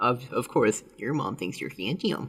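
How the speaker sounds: usual speaking voice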